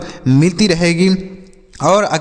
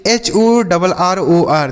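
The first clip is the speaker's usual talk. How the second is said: slow spelling out; 2 semitones higher, much slower than usual. Shown as a demonstration. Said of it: "तो इसे हम क्या पढ़ते हैं".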